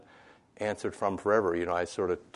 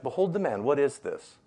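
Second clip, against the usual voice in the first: raised voice; 5 semitones higher than usual. Acted. Preacher voicing Pilate again.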